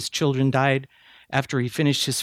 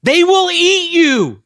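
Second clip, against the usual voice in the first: high, loud mock yell of alarm; retold yell; 7 dB louder, slower than usual. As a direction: shout the warning like a frightened elder. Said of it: "at the top of his voice yelled".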